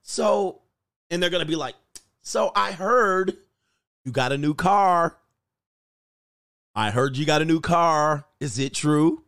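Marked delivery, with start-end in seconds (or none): 2.2-9.2 fake sweet probing. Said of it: "they're talking to you like this".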